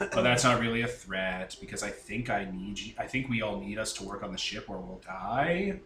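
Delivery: low, soft monotone; monotone Fives. Acted. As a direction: reason it out evenly, without emotion. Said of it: "out of my way to make him monotone".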